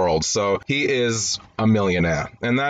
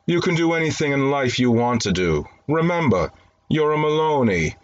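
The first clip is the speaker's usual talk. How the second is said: higher-pitched, lightly acted fatherly encouragement; mock tenderness; 4 semitones higher than usual. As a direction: play a tender father reassuring his son. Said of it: "says with tenderness in his voice".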